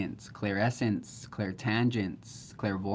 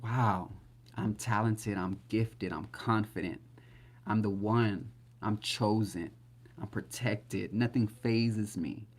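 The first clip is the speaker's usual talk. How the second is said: casual affirmations. Shown as a demonstration. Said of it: "you gotta say these things casually".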